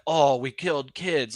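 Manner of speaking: understated regretful imitation, slowed down; mild remorse. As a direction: lightly act out feeling bad, slowly. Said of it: "he actually kinda feels bad about it".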